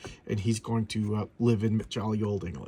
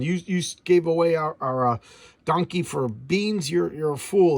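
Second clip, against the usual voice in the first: mock scolding, raised and louder; retold angry yell; 4 semitones higher, 4 dB louder than usual. Man in the story scolds the boy, mock angry yell. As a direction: bark out the insult in mock anger. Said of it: "He sees this guy yelling".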